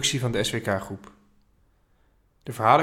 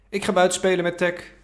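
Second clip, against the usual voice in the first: Mahir's higher, eager call; child calling out; 8 semitones higher, 4 dB louder than usual. A narrator's reading. Boy calls to grandpa from the hallway, eager and higher. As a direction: sing out the plan to go play. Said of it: "roept Mahir".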